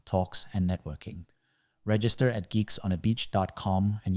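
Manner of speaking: scripted sponsor announcement, evenly delivered; ad read. Acted. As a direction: read the event promo in tidy, measured phrases. Reads a sponsor ad.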